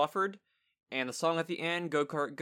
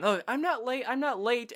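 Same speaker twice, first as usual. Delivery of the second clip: higher, flustered mock Goose voice; light imitation of Goose, pitched higher; imitating Goose; 9 semitones higher, 4 dB louder than usual. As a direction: play Goose rushing in, insisting she's on time. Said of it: "she's saying".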